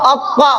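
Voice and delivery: अक्वा as a heavy, full-mouthed doubled emphatic t with rounded "aw"; thick heavy articulation. Shown as a demonstration. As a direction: thicken the consonant and vowel in अक्वा. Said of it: "मोटी आवाज में".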